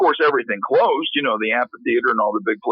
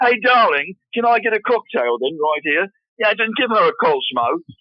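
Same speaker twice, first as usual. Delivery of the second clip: put-on English accent, pitched up, passing as local; 6 semitones higher than usual. Showing how he talks whenever he goes out, in an english accent. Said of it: "English accent ... I talk like this".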